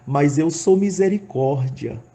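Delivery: voice of God. Retold or imitated. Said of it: "ele disse dessa forma".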